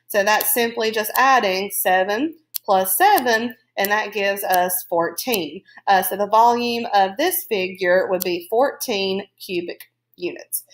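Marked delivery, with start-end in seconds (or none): 5.9-10.6 speaking through hiccups; words broken by a hiccup. Real, not acted. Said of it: "I got the hiccups".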